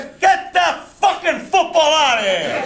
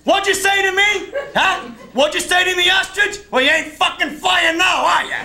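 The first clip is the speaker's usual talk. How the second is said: angry shouting; 6 semitones higher than usual. Acted. Uncle yelling at the fallen ostrich, taunting shout. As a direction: roar it down at the man on the floor. Uncle yells over beaten man.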